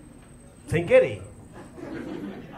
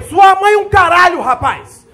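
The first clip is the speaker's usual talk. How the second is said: louder mock drill-sergeant bark; sergeant yelling; 4 semitones higher, 7 dB louder than usual. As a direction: snap at the recruit like an angry sergeant.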